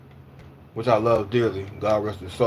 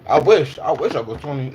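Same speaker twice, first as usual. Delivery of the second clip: laughing wistfully; 3 semitones higher, 4 dB louder than usual. Real, not acted. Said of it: "wistful joke about age".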